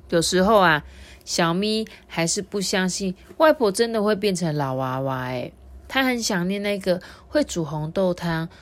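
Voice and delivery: lively picture-book reading; story narration for children. A narrator's reading. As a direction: tell it to small listeners with clear, lifted phrases.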